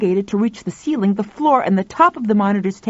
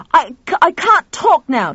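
1 flustered; 9 semitones higher, 6 dB louder than usual. A narrator's reading. Flustered on phone.

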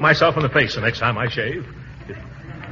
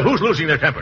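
indignant, mildly raised voice; 2 semitones higher than usual. Acted. Gildersleeve denying to Llewellyn that he's angry, raised voice. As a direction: deny the temper while audibly losing it. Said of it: "you're raising your voice".

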